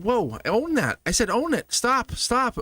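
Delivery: high, urgent "Own it", pushing the client; emphatic retold reply. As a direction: cut them off, excited and insistent.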